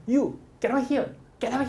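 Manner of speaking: "You get out of here" read slowly and spelled out; teacher reading the line aloud slowly; slow careful reading. Shown as a demonstration. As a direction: pronounce each word of "get out of here" clearly. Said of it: "읽어보면".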